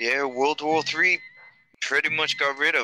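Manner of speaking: put-on poorly done, fumbling northern English accent. Answering a question in character, with a bad Sean Bean accent. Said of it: "it's a terrible accent".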